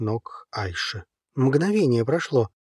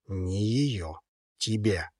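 calm, softer, unbothered; unperturbed; 5 semitones lower, 6 dB quieter, much slower than usual. A narrator's reading. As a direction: answer calmly and evenly. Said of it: "отозвался невозмутимо".

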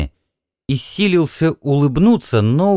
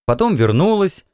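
ordinary delivery

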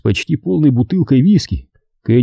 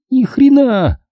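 high-pitched, mildly raised exclamation; loud retort; 13 semitones higher, slower than usual. Acted. Tipsy woman denying she drank, high mildly loud retort. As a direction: blurt it high, a touch louder. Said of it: "сказала она громко".

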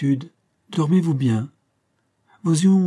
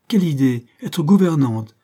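louder, scornful protest; indignant; 3 semitones higher, 5 dB louder than usual. Acted. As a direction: push back hard at the idea. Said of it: "interrompit Shirley".

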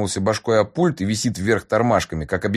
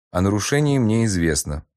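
flat ship computer voice, lightly voiced; a hint of a bored machine; indifferent robot voice; 2 semitones higher than usual. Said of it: "безразлично ответил Кагитр".

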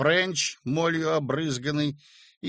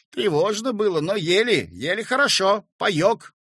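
boastful excitement; 7 semitones higher, 6 dB louder than usual. A narrator's reading.

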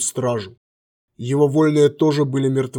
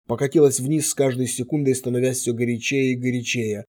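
ordinary delivery

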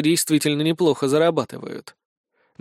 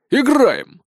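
eager shout; 9 semitones higher, 5 dB louder than usual. A narrator's reading.

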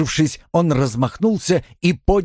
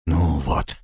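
low, easing exhale of words; relieved; 6 semitones lower than usual. A narrator's reading. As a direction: settle down after a struggle. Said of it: "облегчённо произнёс он".

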